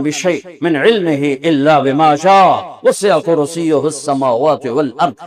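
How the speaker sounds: measured, flowing Arabic recitation; Quran recitation. Acted. Preacher proves God's power from scripture, in cadenced recitation. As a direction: recite verse after verse with drawn-out vowels.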